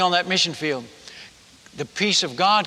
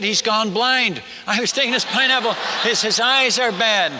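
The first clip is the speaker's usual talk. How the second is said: higher, mock-shouted remarks; lightly shouted, raised-pitch retelling; imitated calling out; 4 semitones higher than usual. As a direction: call it out like onlookers spreading word. Villagers calling out about him.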